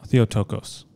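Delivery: Theotokos as thee-oh-TOH-kohs, full long O's; correct pronunciation. Shown as a demonstration. Filmmaker shows host how to pronounce the title, Theotokos as thee-oh-TOH-kohs. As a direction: say Theotokos with an OH in each of the last three syllables. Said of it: "How do you pronounce it".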